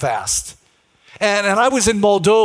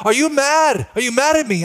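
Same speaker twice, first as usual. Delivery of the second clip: worried partner; 5 semitones higher than usual. Retold or imitated. Acts out partner's worried question.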